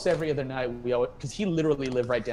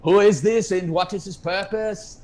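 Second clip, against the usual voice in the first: high, loud mock-imperious interrogation; a guitarist; 7 semitones higher, 6 dB louder than usual. Guitarist looming over a newcomer, imitated loud and suspicious. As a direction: question the stranger loudly, then drag it out. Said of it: "he's, like, looking over me like that. He's like".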